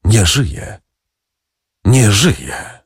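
understated echo, each repeat set apart; echoing second voice. A narrator's reading. Second voice heard from the doorway, echoing. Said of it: "niczym echo, drugi głos mówiący".

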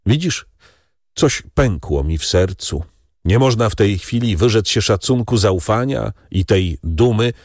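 grieving son. Acted. Albert confides his broken heart to Beauchamp, pained. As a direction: let the hurt show.

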